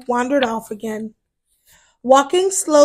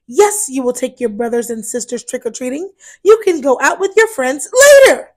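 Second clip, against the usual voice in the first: scolding; faster than usual. Acted. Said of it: "Mother Bat was scolding".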